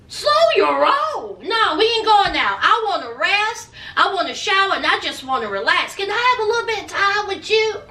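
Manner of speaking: mock exasperation, putting the brakes on him; exasperated refusal. Girlfriend wanting rest and time together, mock exasperated. Voicing Yari refusing and pleading.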